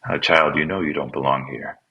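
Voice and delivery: put-on a light, gentle Southern US accent; kindly Southern nurse, lightly imitated. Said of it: "in the Southern accent".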